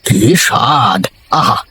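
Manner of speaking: mild delighted food appreciation; savouring food. Acted. Savouring the tasty curry.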